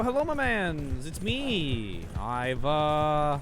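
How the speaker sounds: lightly put-on Canadian accent; shitty Canadian accent. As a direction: do a deliberately bad Canadian accent. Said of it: "This is my shitty Canadian accent".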